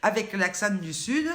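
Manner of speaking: lightly played-up accent from the south of France; southern French accent. Shown as a demonstration. Vlogger showing viewers how she will give the recipe, southern French accent. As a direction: lean a little into your southern French accent. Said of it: "en parlant normalement, avec l'accent".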